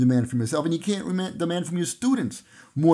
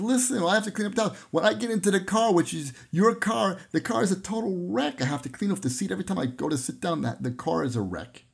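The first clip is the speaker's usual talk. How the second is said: upset wife; 4 semitones higher than usual. Retold or imitated. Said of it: "The wife starts to cry".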